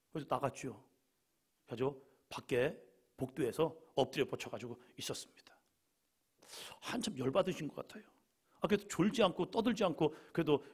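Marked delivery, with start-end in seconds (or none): none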